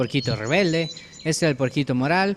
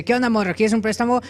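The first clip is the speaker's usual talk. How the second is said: high, louder cartoon wolf; playful raised wolf voice; wolf's sales pitch; 7 semitones higher, 4 dB louder than usual. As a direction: hail the pig and pitch a loan. Wolf accosts the hipster piglet.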